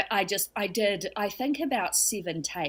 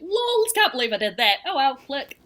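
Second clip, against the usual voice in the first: breezy shrug; 6 semitones higher, 3 dB louder than usual. Retold or imitated. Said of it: "I woke up and I went".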